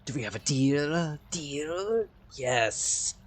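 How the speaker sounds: lightly voiced wolf, pressing for a deal; a hint of talking beast, questioning. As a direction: bargain as a hungry wolf. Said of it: "this voice for the wolves".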